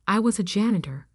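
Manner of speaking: "was" leaned on to correct the tense; stress on "was". A narrator's reading. Former janitor correcting his boss, stress on "was". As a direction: put the emphasis firmly on "was".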